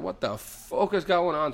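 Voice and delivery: high, slow mock bewilderment; acted startled cry on waking; bewildered outburst. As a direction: draw it out in baffled alarm. Retold panic on waking to screams.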